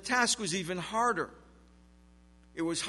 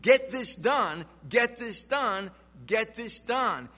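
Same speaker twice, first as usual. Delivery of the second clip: higher, slow, insistent repeated order; a lightly voiced slave driver pushing the workers; mock taskmaster hurrying the slaves; urgent taskmaster; 4 semitones higher, slower than usual.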